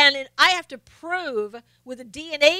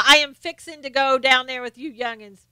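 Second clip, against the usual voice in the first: put-on Southern accent. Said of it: "True English".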